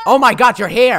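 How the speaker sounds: delighted, loud reunion; thrilled to find her friend; joyful reunion. Real, not acted. Finding Pudding again in game.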